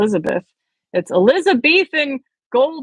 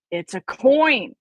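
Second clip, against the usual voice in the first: slow, hushed wonder at the coin; wonderingly; 3 semitones higher, 3 dB louder, slower than usual. Acted. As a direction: savour the discovery slowly. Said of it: "he said wonderingly".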